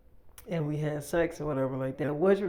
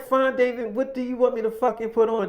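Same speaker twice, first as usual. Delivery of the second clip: loud, raised-pitch retold exasperation; exasperated giving in; 6 semitones higher, 5 dB louder than usual. Woman yielding to David over the costume, exasperated. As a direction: give in loudly, fed up.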